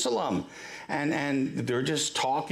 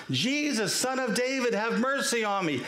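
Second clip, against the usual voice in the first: raised-pitch imitation of a persistent cry; mock yell; 5 semitones higher than usual. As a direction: call out insistently without full volume. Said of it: "he starts yelling out".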